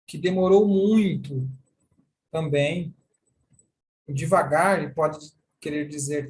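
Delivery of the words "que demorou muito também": slow drawn-out. Shown as a demonstration. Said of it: "Aí você faz o sinal".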